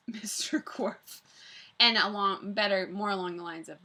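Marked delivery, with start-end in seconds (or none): 0.1-1.2 laughing whisper. Real, not acted. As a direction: whisper the name. Whispered villain name.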